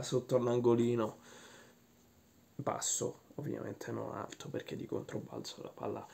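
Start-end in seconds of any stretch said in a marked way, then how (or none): 2.6-6.1 whispering. Acted. Hushed detail of the goal.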